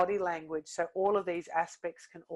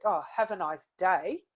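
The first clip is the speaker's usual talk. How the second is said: sarcastic. Shown as a demonstration. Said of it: "a little bit sarcastic".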